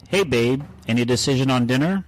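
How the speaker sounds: a hint of perky girlfriend, slightly lifted; lightly voiced girlfriend. Pretending to be the girlfriend asking about dinner, lightly acted. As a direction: lightly put on a girlfriend's chatty tone. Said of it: "this is me as Nicole".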